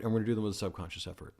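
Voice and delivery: hurried, offhand; quick and light. Shown as a demonstration. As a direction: rattle it off fast. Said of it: "conscious effort vs subconscious effort".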